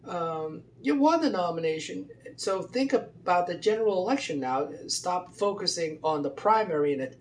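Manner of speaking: pep-talk a friend who just won; friendly urging. Retold or imitated. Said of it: "she was saying to him".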